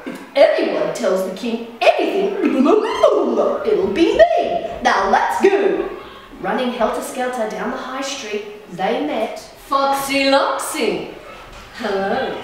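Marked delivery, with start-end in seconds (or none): 0.1-5.9 mild shriek. Acted. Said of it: "Turkey Lucky shrieked". 11.8-12.3 smiling hello. Acted. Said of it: "he smiled".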